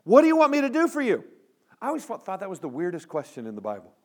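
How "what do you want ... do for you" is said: Jesus asking. A narrator's reading. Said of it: "And Jesus said to him".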